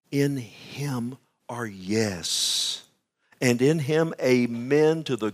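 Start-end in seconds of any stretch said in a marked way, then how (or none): 0.1-2.8 slow, hushed whisper. Acted. Preacher whispering the promise to his congregation, slow whisper. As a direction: breathe it out like a secret.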